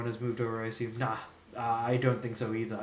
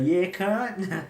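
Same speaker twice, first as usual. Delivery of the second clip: loud, high yell; shouting; 7 semitones higher, 6 dB louder than usual. Retold or imitated. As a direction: yell it down the street. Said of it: "just shouting out".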